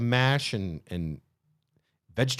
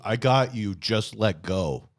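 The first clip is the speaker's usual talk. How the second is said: calm reassuring God; slower than usual. Acted. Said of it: "big booming".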